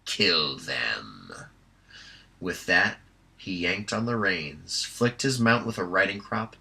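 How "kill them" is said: low, slow, menacing death order; grandly menacing hobgoblin. Acted. Viewmaster Toad orders the killing for grand effect. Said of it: "for grand effect".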